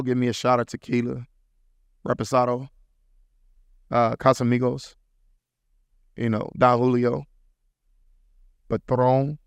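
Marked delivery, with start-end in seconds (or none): 2.1-9.4 put-on light playful Spanish accent; lightly put-on Spanish accent on the names. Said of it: "put my little Spanish accent in there".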